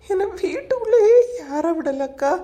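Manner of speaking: crying as she tells it; words breaking with tears; tearful complaint. Acted. Young wife telling her sister she was locked out, crying.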